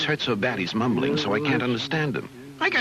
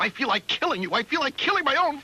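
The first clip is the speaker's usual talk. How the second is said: rising anger; 5 semitones higher than usual. Acted. Son losing temper at father.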